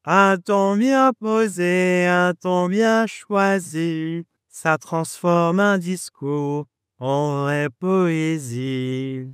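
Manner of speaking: slow, lingering poem reading; poetic recital. Acted. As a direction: savor each line like verse. Poetic opening declamation.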